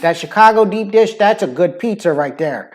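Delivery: loud, high Chicago local; Chicago accent. Shown as a demonstration. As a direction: cut in like a pushy Chicago pal. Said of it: "that's kind of the difference in the sounds".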